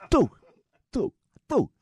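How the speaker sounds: high, punched mock Pakistani accent; bad Muslim accent. Driver counting his wives, in a mock Pakistani accent. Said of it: "my really bad Muslim accent".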